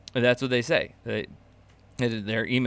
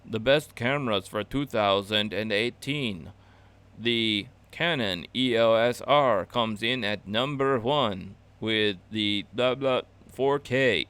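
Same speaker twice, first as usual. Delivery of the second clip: robot channel voice; slower than usual. Retold or imitated. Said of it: "those robot channels that are like".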